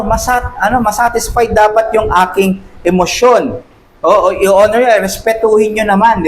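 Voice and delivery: lightly hammed-up self-pitying demand; mock demanding. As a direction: whine it like someone owed respect. Voicing someone demanding emotions honored.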